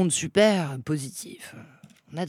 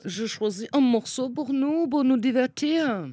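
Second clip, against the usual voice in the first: playful mock German accent, rising higher; put-on German accent; 5 semitones higher, 4 dB louder than usual. Guest picking a song for the show, in a put-on German accent. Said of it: "je prends l'accent allemand".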